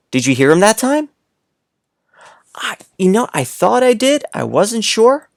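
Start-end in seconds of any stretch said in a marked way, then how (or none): 2.5-5.3 pretend child reply.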